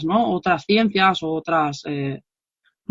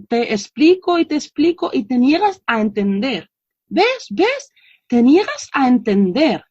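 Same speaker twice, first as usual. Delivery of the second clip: imitated exasperated mother; 3 semitones higher than usual. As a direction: play a mother fed up with explaining. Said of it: "estas madres les dicen a estos niños". (madre exasperada, imitada)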